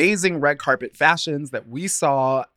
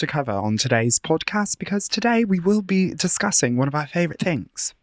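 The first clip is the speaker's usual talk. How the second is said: mock British accent; 3 semitones higher than usual. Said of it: "I'm gonna stop with my accent".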